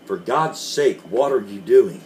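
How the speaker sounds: husband crying out in alarm; frightened exclamation; cried out. A narrator's reading. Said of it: "he cried".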